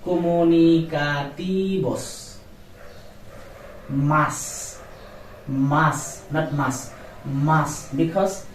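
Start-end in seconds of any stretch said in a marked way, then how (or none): 0.0-2.2 Comunicativos said as komunikatibos, with v as b; correct comunicativos. Shown as a demonstration. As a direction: say Comunicativos with a b sound for the v. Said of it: "B, not V".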